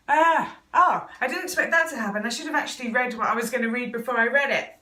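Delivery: real teary outburst. Real, not acted. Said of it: "I'm getting a little teary".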